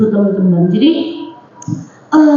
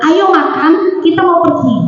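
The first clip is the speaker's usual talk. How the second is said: put-on higher-pitched everyday order to the child; brisk motherly command, pitched up; instruction tone; 4 semitones higher than usual. Mother repeats her order to eat, higher instruction tone. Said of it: "Itu perintah bener".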